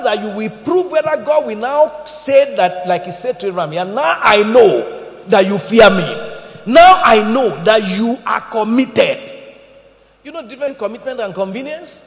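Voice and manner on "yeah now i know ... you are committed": booming voice of God. Acted. God speaking to Abraham, preached.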